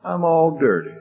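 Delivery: high-pitched tearful boy, imitated; crying child. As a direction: play a whimpering little boy. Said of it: "He's crying".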